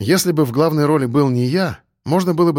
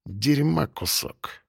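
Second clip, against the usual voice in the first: very soft, slow, lips barely moving; muttered almost silently; 7 dB quieter, much slower than usual. A narrator's reading. Пленник тихо оскорбляет бандита Храпа, почти не шевеля губами. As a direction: slip the insult out under the breath. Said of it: "произнёс очень тихо и практически не шевеля губами".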